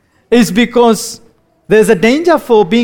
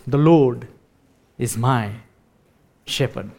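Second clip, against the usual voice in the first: faltering dying voice; 10 semitones lower, 8 dB quieter than usual. Retold or imitated. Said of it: "by his faltering voice".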